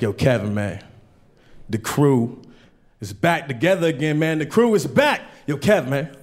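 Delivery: a hint of hyped-up buddies, low; lightly voiced excited friends. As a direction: friends egging him on, low and lazy. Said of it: "My friends are very excited".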